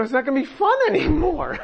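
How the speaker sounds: quick words broken by a laugh; laughing aside. Real, not acted. Preacher laughing about Sarah's practical worry. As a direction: laugh through it.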